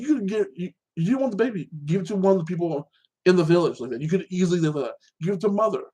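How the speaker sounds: exasperated scolding. Retold or imitated. Viewer telling off the mother over the baby, exasperated scolding. Scolding the show's character in retelling.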